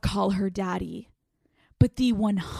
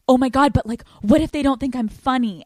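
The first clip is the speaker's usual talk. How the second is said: higher, mildly panicky imitation of mom; retold freak-out; 4 semitones higher, 4 dB louder, faster than usual. Daughter retelling her mom's worry about being funny, mild mock freak-out. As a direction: fret like a worried mom, lightly acted. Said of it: "freaking out".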